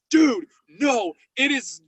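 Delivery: high, loud, half-laughing dude no; thrilled can't-believe-it outburst; excited disbelief. Retold or imitated. Investigator retelling his reaction to the figure, excited. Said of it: "I'm like".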